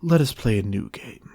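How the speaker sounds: a predator itching to play; Wolf eager. A narrator's reading.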